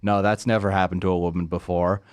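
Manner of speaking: understated sarcastic denial. Acted. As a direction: deny it with feigned innocence. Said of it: "That was sarcasm".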